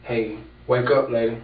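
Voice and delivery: mildly firmer call to rouse a sleeper, imitated. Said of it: "He got a little bit louder".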